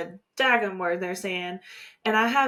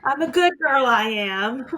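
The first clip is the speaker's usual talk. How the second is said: louder, hammed-up Cockney protest; bad Cockney accent; 2 semitones higher, 5 dB louder than usual. Quoting the indignant flower girl, mock Cockney. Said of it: "it's a bad Cockney accent".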